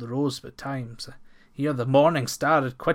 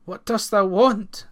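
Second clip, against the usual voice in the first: gruff farmer; 7 semitones higher, 7 dB louder than usual. Acted. Farmer challenges stranger.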